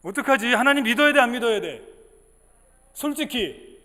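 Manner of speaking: ordinary talk, nothing marked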